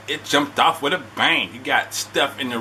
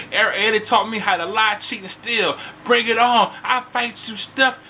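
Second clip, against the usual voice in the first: higher, heated mock Vicky; imitating Vicky going off; 8 semitones higher than usual. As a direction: work her up into a challenge. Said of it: "Vicky start going off".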